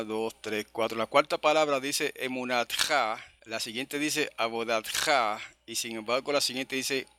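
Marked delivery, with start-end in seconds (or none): 2.2-3.2 emunatja stressed on the final "tja"; stress on last syllable. Shown as a demonstration. Teacher reading out a Hebrew word, stress on last syllable. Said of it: "la palabra es aguda". 4.4-5.4 abodatja stressed on the final "tja"; stress on last syllable. Shown as a demonstration. Teacher reading out a Hebrew word, stress on last syllable. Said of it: "la palabra es aguda".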